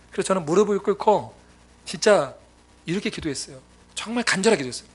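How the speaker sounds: usual speaking voice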